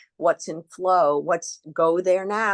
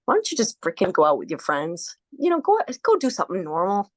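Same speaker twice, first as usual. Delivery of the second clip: ego's voice. Retold or imitated. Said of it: "my ego gets in the way and it says".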